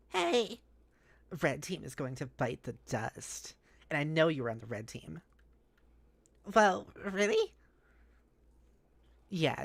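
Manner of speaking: lightly voiced taunting troll girl; Vriska voice. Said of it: "her name's Vriska, by the way".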